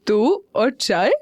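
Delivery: slow astonished question; a mother amazed her son wants tea; surprised. Acted. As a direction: drag it out in disbelief. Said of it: "हैरानी से बोली".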